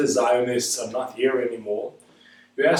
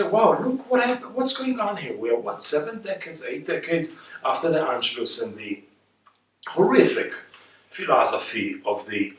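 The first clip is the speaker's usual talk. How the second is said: amazed inner exclamation. Retold or imitated. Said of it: "and I say".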